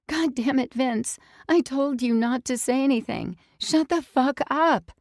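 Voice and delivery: high and loud, exasperated; angry snapping. Acted. Girl furious at Vince for shouting, snapping. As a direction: tear into him for blabbing.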